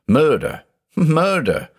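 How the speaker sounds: high-pitched, rising on the repeat; agitated exclamation. A narrator's reading. Judge confessing his obsession to his doctor, agitated. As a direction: cry out with pitch climbing, volume contained.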